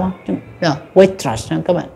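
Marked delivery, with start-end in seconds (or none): 0.9-1.4 waitress with T and R joined onto the second vowel; linked consonants. Shown as a demonstration. Teacher modelling the linked T-R in waitress. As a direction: link the T and R forward in waitress. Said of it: "nối cho cái nguyên âm ở phía sau".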